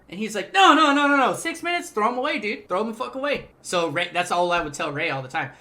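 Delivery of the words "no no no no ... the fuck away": high, loud mock outburst at the coworker; Ray freaking out. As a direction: voice the manager blowing up, pitched high and loud. Ray's outburst in the retold story.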